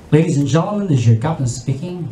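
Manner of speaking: low, calm pilot announcement; calm captain. Acted. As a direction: speak low and composed like a captain.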